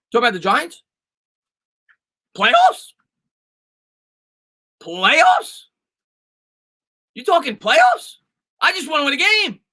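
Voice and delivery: high, incredulous coach rant about playoffs; Jim Moore impression. Answering a listener's playoff question, as a mock disbelieving coach. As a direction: squeal the word playoffs in disbelief like the famous coach. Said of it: "I tried the Jim Moore impersonation".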